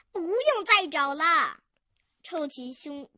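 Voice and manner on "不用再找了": excited, louder and higher. Acted. Weasel tells the visitors to stop searching, excited. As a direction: announce it with eager excitement. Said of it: "兴奋地说".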